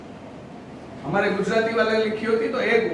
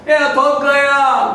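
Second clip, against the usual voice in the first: mock whimpering kid, higher and louder, dragged slowly; whiny child; 5 semitones higher, 6 dB louder, slower than usual. Teacher imitating a whining child to his mother, slow mock whimper. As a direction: whine like a tired child begging mummy. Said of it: "वो sound है ना".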